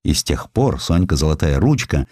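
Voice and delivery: ordinary delivery, nothing marked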